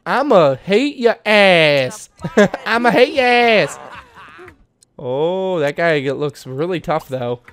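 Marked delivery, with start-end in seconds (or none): 0.0-2.1 slow, drawn-out gangster threat; hammed-up mob boss growl; mock tough threat. Voicing Don's rude threat. 2.4-3.8 higher, breaking into a laugh; giggling through the tough line; laughing threat. Pretend. Repeat of Don's threat, laughing.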